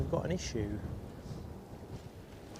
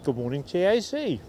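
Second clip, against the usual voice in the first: talking with a mouth full; 5 semitones higher, 3 dB louder than usual. Real, not acted. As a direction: speak through a mouthful of croissant. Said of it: "I'm chopsing with my mouth full".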